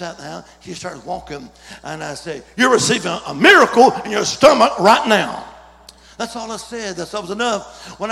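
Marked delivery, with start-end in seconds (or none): 2.6-5.5 booming prophetic announcement; loud declaration. Retold or imitated. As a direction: proclaim it to the room. Preacher declaring a miracle.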